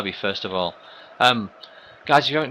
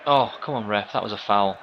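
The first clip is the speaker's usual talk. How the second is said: pleading with the referee; 4 dB louder than usual. Real, not acted. Pleading at ref in game.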